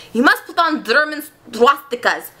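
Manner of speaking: rough mock German accent; put-on German accent. Playwright instructing visitors what to wear, put-on German accent. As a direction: lay on a makeshift German accent. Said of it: "that's my German accent for this".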